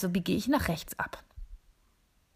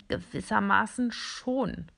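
stammering; slower than usual. Acted. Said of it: "stammelt eins der Geräte".

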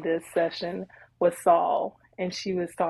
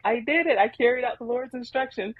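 higher, pleased boast of a job done; proud and happy; 5 semitones higher than usual. Retold or imitated. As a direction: crow "I carried out the Lord's instructions" like a proud kid. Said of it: "He's just proud, just happy".

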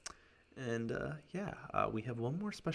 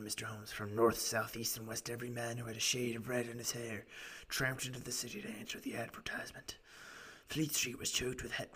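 lightly rasped storytelling client; raspy voice. Acted. Client telling gentlemen his story, lightly raspy voice. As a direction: recount it with a hint of rasp. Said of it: "doing this raspy voice for him".

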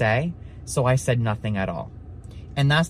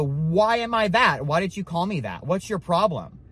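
higher, indignant retort without real volume; imagined yelling back; 4 semitones higher than usual. Retold or imitated. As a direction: act out a mock angry comeback. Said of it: "I wanted to yell back".

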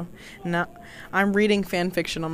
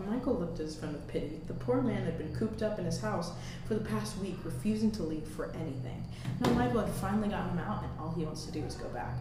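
story narration; 11 dB quieter than usual. A narrator's reading. Reading fan fiction for a podcast in a stairwell, quiet narration. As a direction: read the story quietly to the mic.

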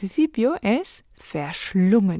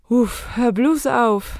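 slow, fond sigh of a phrase; soft, affectionate exclamation; 3 semitones higher, slower than usual. Shown as a demonstration. Teacher repeats the phrase for learners, gently affectionate. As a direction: stretch it out affectionately. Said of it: "Pero con una entonación suave, cariñosa".

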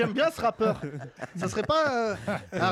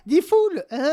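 mock radio shout; 10 semitones higher, 7 dB louder, slower than usual. Mock pirate radio host shout.

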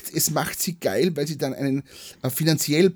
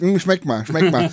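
speech impediment; slower than usual. Retold or imitated. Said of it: "du den Sprachfehler hast".

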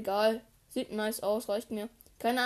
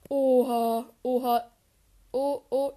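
excited gasp; 7 dB louder, slower than usual. Real, not acted. Sudden loot or danger.

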